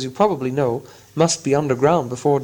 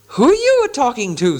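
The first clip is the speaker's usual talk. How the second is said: offended troll; 9 semitones higher than usual. Acted. William challenging Bert, high troll voice. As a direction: square up to him. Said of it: "said William".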